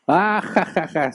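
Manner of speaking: high, far-off mock guffaw; imitating a burst of laughter. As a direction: act out the friend's sudden cackle. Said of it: "soltó la carcajada".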